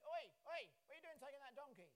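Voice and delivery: loud sudden Oi, calling out to stop them; a bystander hollering at thieves, hammed up; mock shout. Villager challenges disciples taking donkey.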